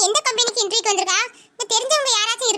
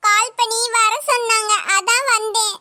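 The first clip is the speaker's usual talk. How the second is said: tearful, slow words through tears; slow tearful reply to the older sister; crying; slower than usual. Acted. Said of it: "அழுவையை நிறுத்து".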